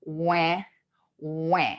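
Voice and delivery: isolated drawn-out wah sounds; facial exercise. Shown as a demonstration. Coach shows a face-muscle exercise, exaggerated separate wahs. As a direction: lift the cheeks and say each wah separately. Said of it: "so try this".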